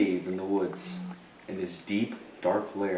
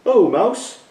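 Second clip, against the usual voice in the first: higher, louder, cheerful hare greeting; 12 semitones higher, 8 dB louder than usual. Acted. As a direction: greet an old friend as a bouncy hare. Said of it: "says Hare".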